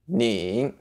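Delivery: 你 said slowly, dipping down and back up; model pronunciation. Shown as a demonstration. Teacher modelling the word 你 for learners. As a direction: say 你 with a falling-rising third tone. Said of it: "that's what it sounds like".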